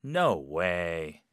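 disbelief. Shown as a demonstration. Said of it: "불신".

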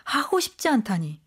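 indignant retold scolding, rising on the last question; angry interrogation. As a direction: play an exasperated boss pressing for an answer. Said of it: "라고 하면서 막 다그친 거죠". (어이없어하며 다그치듯)

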